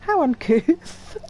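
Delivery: haughty noble. Acted. Aristocrat sneering at a rival's underling, slow and haughty. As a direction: sniff it out with lofty contempt.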